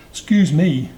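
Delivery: high, loud, polite interjection; polite elephant's child. A narrator's reading. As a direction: speak up politely as a little elephant. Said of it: "most politely".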